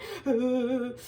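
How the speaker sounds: mock frightened huffing; scared shuddering breaths. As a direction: imitate shaky breaths of someone too scared to cry. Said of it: "too scared to cry. I was like".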